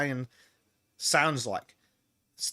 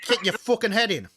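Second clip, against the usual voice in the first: raised-pitch mock threat in Bogan Australian; Bogan accent; 6 semitones higher, 4 dB louder than usual. Shown as a demonstration. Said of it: "I don't know if I can even do a Bogan accent".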